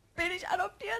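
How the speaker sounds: high, tearful pleading voice.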